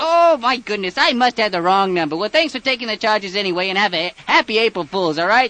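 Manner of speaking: high, loud overeager caller voice; excited prank caller. Acted. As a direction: insist you're old friends, loudly. Caller persona ordering fast food.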